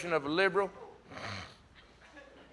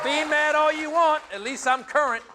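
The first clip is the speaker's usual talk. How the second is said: smug defiance; 6 semitones higher, 7 dB louder than usual. Pretend. The liberal character answering his critics, smug and loud. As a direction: throw it at them like you're proud. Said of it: "my impression of the liver".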